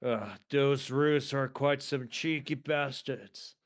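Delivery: slow, put-on Australian grumble; Australian accent. Friend joking about roos, slow Australian accent. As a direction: grumble slowly like a mock Aussie. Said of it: "trying to emulate the Australian accent".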